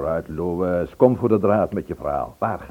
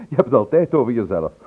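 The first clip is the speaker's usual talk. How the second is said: a laugh, then a louder teasing jab; fond mocking laughter; laughing tease; 3 semitones higher, 6 dB louder than usual. Real, not acted. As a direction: tease him through a laugh.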